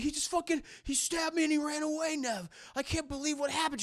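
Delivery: high-pitched imitation of a wounded victim; hammed-up upset boyfriend; mock distress. Voices wounded boyfriend to girlfriend.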